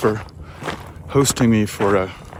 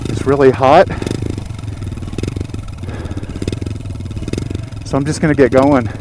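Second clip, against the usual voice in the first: inside a motorcycle helmet. Real, not acted. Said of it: "my helmet mic on the way back".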